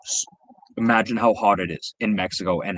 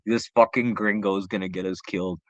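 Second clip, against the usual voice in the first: retold disgust; 2 semitones lower than usual. Bodyguard dreading the gringo will get them killed, disgusted. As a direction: groan it to yourself, imitating disgust. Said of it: "just the disgust on his face".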